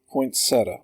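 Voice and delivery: poinsettia in three syllables, poyn-SET-uh; poinsettia pronounced "point-SET-uh"; poinsettia ending in -ta. Shown as a demonstration. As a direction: say poinsettia with a T in poynt and a plain -uh ending. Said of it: "However you pronounce it".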